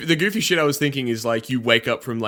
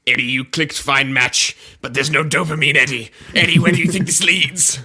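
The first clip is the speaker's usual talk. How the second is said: mock scolding, getting louder; nagging; 4 dB louder than usual. Symbiote lecturing Eddie about dopamine, nagging. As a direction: build to an exasperated telling-off. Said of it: "It just nags you all day".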